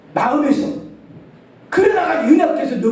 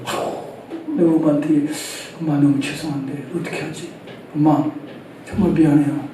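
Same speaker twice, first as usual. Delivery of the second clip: lower, softer, heartfelt sorry; sincere apology; 6 semitones lower, 5 dB quieter than usual. Pretend. A loving son hugging his mother, soft sincere apology. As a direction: apologise to mom gently, from the heart.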